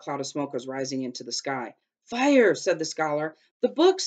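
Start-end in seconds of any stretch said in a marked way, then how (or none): 2.0-2.5 loud, high shout of alarm; alarmed cry. A narrator's reading. Scholar spots smoke rising from the courtyard, alarmed cry. 3.6-4.0 high, loud cry of dismay; alarmed exclamation. A narrator's reading. Jack realises the books are on fire, alarmed exclamation.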